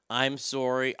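lightly Canadian "sorry", rounded SORE-ee; Canadian accent. Pretend. Apology for the Canadian fans, light Canadian accent on "sorry". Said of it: "That's for all our Canadian fans".

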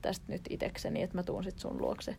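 cool detachment. Acted. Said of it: "jos mä oon, niinku, kylmä".

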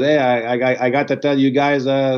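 teasing imitation of a friend's accent, halting start; lightly put-on accent, stumbling over the words; George Saint Pierre's accent. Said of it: "that was good accent".

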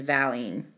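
"valine" with a short a, as in valley; first pronunciation. Shown as a demonstration. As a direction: say "valine" as VAL-een. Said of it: "depending on how you say it".

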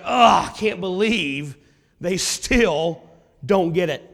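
mildly exasperated, spaced-out phrases; frustrated disbelief. Retold or imitated. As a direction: act out frustrated disbelief, pausing between phrases. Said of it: "Jesus was frustrated at these people".

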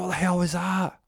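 high, loud disbelief; shocked outcry. Acted. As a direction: exclaim it in acted shock. Acted shock after shooting.

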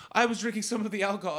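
mock overly proper phrasing. Shown as a demonstration. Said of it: "So no one says".

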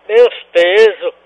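slow loud blurt. Pretend. Prank caller repeats phrase.

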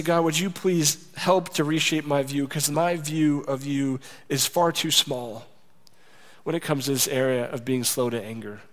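humble prayer. Shown as a demonstration. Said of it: "I have to say".

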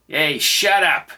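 slow, loud, barked order; yelled. A narrator's reading. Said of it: "yelled the short guy".

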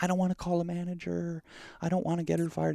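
high-pitched mock fretting; imitating Cass. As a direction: voice the friend's reluctant protest. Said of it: "And she's like".

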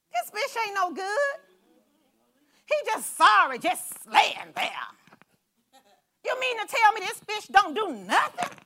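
mock complaint. Mocking a fish left on land.

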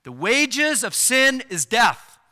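forceful second reading of the verse; emphatic repeat. Shown as a demonstration. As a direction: proclaim it from the pulpit.

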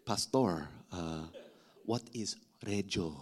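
low, soft, hesitant question; puzzled churchgoer. Acted. Churchgoer lost at the preacher's slang, low and puzzled. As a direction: ask the pastor timidly, halting between words.

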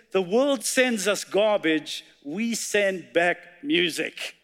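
slow, deliberate quote reading; slow quoted line. Shown as a demonstration. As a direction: let each word land slowly. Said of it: "it's a quote by Fabio Chavez".

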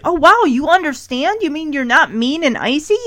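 retold pleasant surprise; mock wonder, lifting into questions; surprised. Host retelling how Eric reacts to the supermodel, surprised. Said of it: "And Eric's surprised".

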